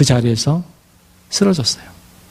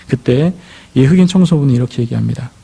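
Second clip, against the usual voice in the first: ordinary talk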